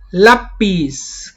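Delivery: lápiz with a strong LÁ, then falling; stress on first syllable. Shown as a demonstration. Teacher offering lápiz as a grave example, stressed LÁ. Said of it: "Es una palabra grave".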